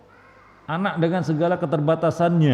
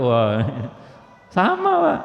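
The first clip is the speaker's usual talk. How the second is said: mock surprise; slower than usual. Imitating a parent comparing children. (kaget sambil tertawa, nada tinggi)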